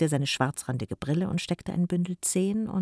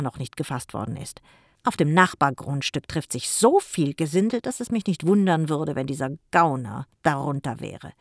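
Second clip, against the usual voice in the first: admonishing uncle; 4 dB louder than usual. Acted. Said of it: "ermahnte Jim".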